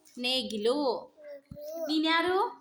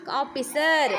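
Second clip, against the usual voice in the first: firm, lower-pitched teacher's model; loud model answer; 5 semitones lower, 4 dB louder, slower than usual. Shown as a demonstration. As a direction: say it out loudly for the pupil to copy. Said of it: "ಜೋರಾಗಿ ಹೇಳು". (ಜೋರಾಗಿ ಹೇಳಿಕೊಡುವುದು)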